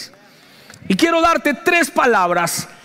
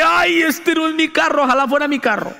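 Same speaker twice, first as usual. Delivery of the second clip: half-laughing mock dismay, higher; mock panic; 3 semitones higher than usual. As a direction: fake panic over dad's car, laughing. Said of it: "Yo dije". (pánico fingido entre risas)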